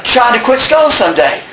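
high, halting comic reluctance; hesitant hedging. Acted. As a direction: inch toward the promise with long pauses. Comic hedged promise to quit.

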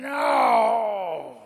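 sudden high shouted no. Retold or imitated. Coming to in the blackness, hearing Charlie's voice, loud high shout. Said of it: "and I'm going".

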